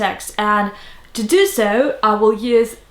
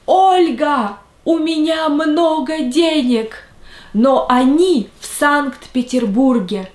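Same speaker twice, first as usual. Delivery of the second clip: a hint of a raised old grandmother calling Olga; grandmother's voice; 4 semitones higher than usual. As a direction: lightly voice the grandmother, pitched a little up. Grandmother quoted in story.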